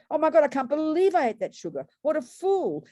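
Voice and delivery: a high, dismayed cry of self-reproach; intense regret. Retold or imitated. Teacher voicing intense regret over the sugar, high dismayed cry. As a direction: really feel the shock of the mistake. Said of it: "your attitude will be intense".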